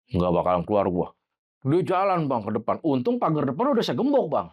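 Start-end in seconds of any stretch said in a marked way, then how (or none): 0.1-1.1 lightly voiced low spirit; low, mildly menacing possessed voice. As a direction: imitate a spirit refusing to leave. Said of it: "suaranya gede, ngebas".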